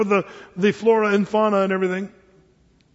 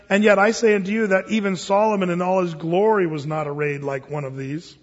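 scripture reading. Acted. Reads scripture to congregation.

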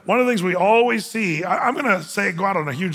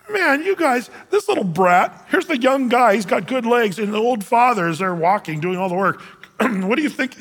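scolding passerby; 4 semitones higher than usual. Retold or imitated. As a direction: shame the lazy boy on the donkey. Third passerby scolding the boy.

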